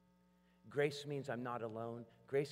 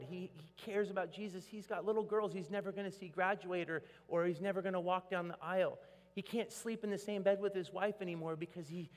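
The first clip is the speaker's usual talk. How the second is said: raised, higher pleading prayer to Jesus; 7 semitones higher, 4 dB louder than usual. Retold or imitated. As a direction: beg God loudly for a friend's healing. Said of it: "we've been praying for the big".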